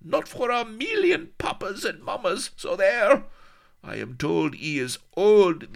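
put-on very high, loud, accented screaming; shrieking accented fury; furious tantrum. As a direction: rant wildly, stamping. Tantrum about betrothed.

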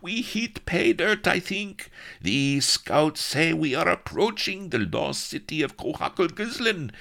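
very high, oily eager voice; high, greasy, excited courtier; greasy excitement. Acted. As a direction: gush it out like a fawning schemer. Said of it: "all greasy excitement".

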